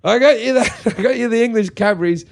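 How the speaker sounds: playing the innocent son; mock-sweet gift. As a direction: sell the trick innocently. Handing mum the fake chocolate.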